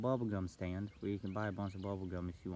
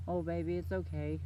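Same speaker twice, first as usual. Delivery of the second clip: retold soothing; 6 semitones higher than usual. Retold store lady comforting the child.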